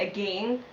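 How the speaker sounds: "again" rhyming with "gain"; poet's pronunciation. Retold or imitated. Quoting a girl at a poetry slam, "again" rhyming with "gain". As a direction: say "again" with a long A. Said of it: "she kept saying".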